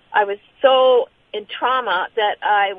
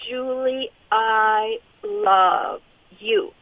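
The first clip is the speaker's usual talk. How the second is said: tender voice; much slower than usual. Retold or imitated. The voice telling her in the night, slow and tender. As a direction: let each word linger like a gentle embrace. Quoting the voice she heard.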